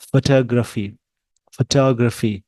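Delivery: फोटोग्राफी as "fuh-TAH-gruh-fee", stress on TAH; American pronunciation. Shown as a demonstration. Teacher showing learners where the stress goes, American pronunciation. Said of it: "टॉ पे stress देना है".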